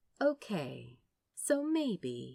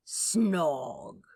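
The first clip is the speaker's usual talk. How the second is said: helpful tease; 3 dB louder than usual. Acted. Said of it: "Crowley reiterated, helpfully".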